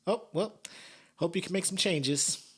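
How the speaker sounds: high, breezy imitation of the judge; mock judge. Judge brushing off her old classmate, mock sing-off. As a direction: put on a high mock send-off. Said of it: "she was just like".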